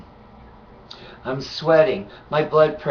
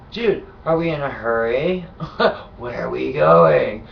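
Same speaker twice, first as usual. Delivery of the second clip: mock nonchalant; 2 semitones lower than usual. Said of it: "that was my attitude".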